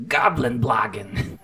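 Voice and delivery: a slow, low, soft hint of a Green Goblin; lightly voiced villain; Willem Dafoe voice. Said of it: "doing the Willem Dafoe voice".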